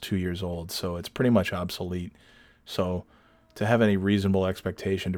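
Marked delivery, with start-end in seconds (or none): none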